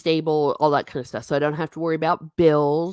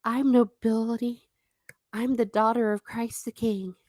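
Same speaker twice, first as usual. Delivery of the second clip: mock haughty; 6 semitones higher than usual. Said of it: "I'll say this to make everyone puke".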